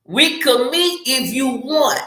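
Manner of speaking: wishy-washy example of what not to say; noncommittal offer. Shown as a demonstration. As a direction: float it out as if you hardly mind. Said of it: "don't come on the text".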